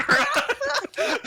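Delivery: high-pitched laugh breaking up. Real, not acted. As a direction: crack up mid-line, slow. Collapses laughing.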